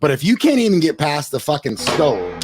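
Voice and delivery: getting worked up mid-point; a touch of real heat on the stove line; got excited. Real, not acted. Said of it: "I got excited there".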